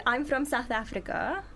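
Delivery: put-on lightly done South African accent, close to her own voice; a gentle South African accent on request. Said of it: "Give us an accent".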